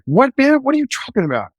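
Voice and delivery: high, rattled retort; a cop shaken by the screaming in the back seat; startled question. Retold or imitated. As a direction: thrown off, blurting it out. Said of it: "And I'm like".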